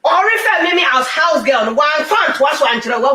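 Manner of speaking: angry shout. Acted. Angry complaint, house girl.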